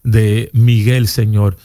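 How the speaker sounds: earnest spoken prayer, repeating Señor; fervent prayer. Real, not acted. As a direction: pray over him with conviction. Pastor prays for callers on air.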